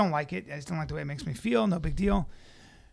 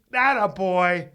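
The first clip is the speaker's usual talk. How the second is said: slow, hollered cheer, imitated; loud approval; 9 dB louder, much slower than usual. Seatmate cheering a dieter who gave in, loud approval. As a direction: draw out a loud mock cheer.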